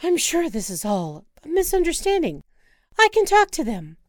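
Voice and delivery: put-on birthday girl begging to see penguins; eager Wanda. Wife urging husband onward, eager and pleading.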